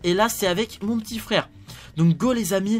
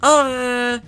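raised elf voice; high elf voice; 4 semitones higher than usual. Acted. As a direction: explain it in a higher elf voice. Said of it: "une voix un peu plus aiguë".

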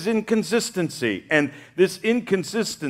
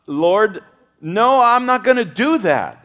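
loud, higher, flat-out refusal; indignant refusal; 5 semitones higher, 5 dB louder than usual. Acted. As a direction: dig in your heels and refuse. Peter refusing God.

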